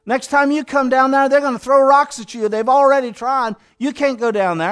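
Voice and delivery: preacher voicing worried disciples pleading; urgent warning. Disciples warning Jesus off returning, urgent.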